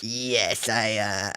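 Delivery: low, quiet, halting admission; guilty admission. Acted. Guilty admission to toy's owner.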